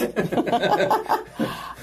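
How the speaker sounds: high breathy laugh; real laugh. Real, not acted. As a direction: laugh at your own soaked hair. Laughing at the soaking.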